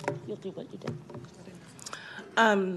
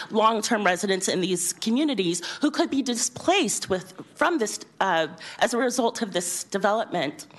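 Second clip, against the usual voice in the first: teacher voice. Real, not acted. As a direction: project to the back row. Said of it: "I'll use my teacher voice".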